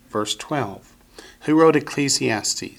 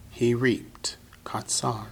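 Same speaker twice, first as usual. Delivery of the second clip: soft aside; 6 dB quieter, slower than usual. Real, not acted.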